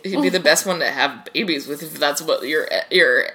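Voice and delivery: slightly tipsy, loose speech. Real, not acted. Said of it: "Now you can tell I'm getting drunk".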